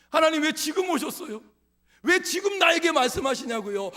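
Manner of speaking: 높고 크게 하나님께 따지는 모세; 억울함을 높은 목소리로 쏟아내기; 투덜대는 모세. Acted. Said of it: "지금 모세가 그런 마음이에요". (하나님께 투덜대는 모세의 큰 외침)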